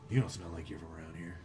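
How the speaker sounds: low, quick, lightly voiced gnoll; a hint of wary gnoll; suspicious gnoll. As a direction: size up strangers in a subdued creature voice.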